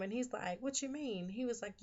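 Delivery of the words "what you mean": retold comeback. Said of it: "Jamal basically shoots back at him".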